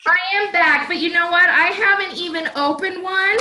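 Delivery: breathless after running back; puffing from a quick dash; out of breath. Real, not acted. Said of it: "whew, I'm out of breath".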